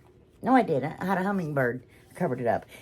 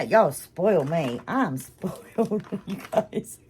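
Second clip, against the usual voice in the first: teary laughter; slower than usual. Real, not acted. Touched by gifts, laughing.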